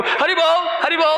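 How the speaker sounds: a hint of his elderly mother greeting devotees; mom's Haribol greeting. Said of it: "she speaks Haribol so clearly".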